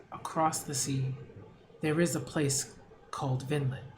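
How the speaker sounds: a quiet, soothing offer of refuge; soft calm telling. Acted. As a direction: tell it gently like a dream. Mystical voice describing Vinland.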